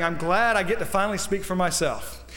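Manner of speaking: Paul's plea. Acted. Preacher speaking as Paul to King Agrippa, earnest appeal. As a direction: build a preacher's plea, climbing toward the end.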